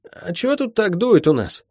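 put-on high, puzzled little boy's voice; high-pitched kid asking; little brother. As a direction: ask in a high child's voice, innocently. Sleepy child brother speaks.

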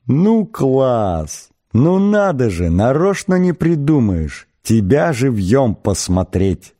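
high, gleeful marvelling; wheezing amazement. A narrator's reading. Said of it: "захрипел он".

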